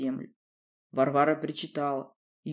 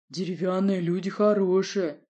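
strange simple voice. Acted. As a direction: speak like a simple forest creature. Varvara's odd voice.

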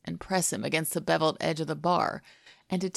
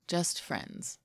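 whispered thought; 6 dB quieter than usual. A narrator's reading. Unspoken thought of disappointment.

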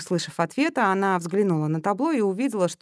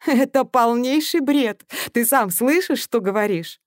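firm; 5 semitones higher, 4 dB louder than usual. Acted. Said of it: "решительно заявила".

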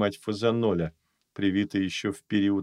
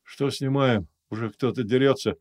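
sleepy, groggy questions; just woken up; 3 semitones higher than usual. Acted. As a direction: ask half-asleep. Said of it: "спросонья спросил он". (спросонья, сонным голосом)

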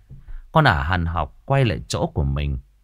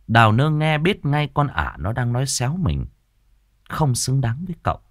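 usual speaking voice

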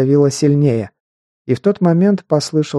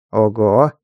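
gleeful; 4 semitones lower than usual. Acted. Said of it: "радостный голос некроманта".

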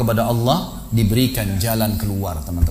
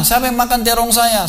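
mock shout; 11 semitones higher than usual. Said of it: "Teriak gitu kan".

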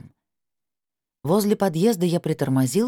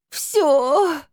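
high, louder crying yell; tearful shout; 14 semitones higher, 5 dB louder than usual. A narrator's reading. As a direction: fling the single word back. Crying girl shouts back.

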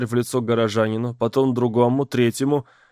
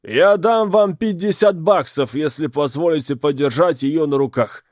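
excited; 4 semitones higher, 4 dB louder than usual. Acted. Crowd voice bidding loudly.

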